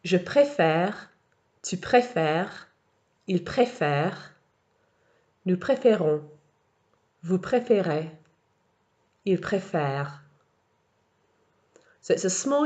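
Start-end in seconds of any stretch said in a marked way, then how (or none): 0.0-10.2 préfère with an open è, préférons with closed é; model conjugation. Shown as a demonstration. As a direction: read each form for listening practice. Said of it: "So listen through".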